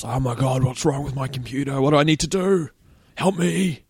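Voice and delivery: high, hammed-up helpless distress; full-on mock panic. Winding up the scammer on parents' phone, mock panic. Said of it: "going on about it real full on".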